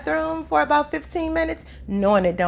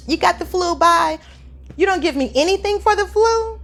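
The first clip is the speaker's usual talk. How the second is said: mock indignant question; 7 semitones higher, 3 dB louder than usual. Mock exchange with the doctor.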